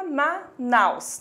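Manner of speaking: "Manaus" broken into its syllables; split into syllables. Shown as a demonstration. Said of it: "fazendo a separação silábica".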